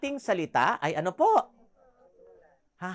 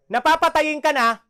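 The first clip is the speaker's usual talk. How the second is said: high, singsong sweet-talking tone; lilting Ilonggo sweetness while warning; mock sweet lilt; 7 semitones higher, 9 dB louder than usual. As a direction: coo it like a tender threat. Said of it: "may mga lugar naman".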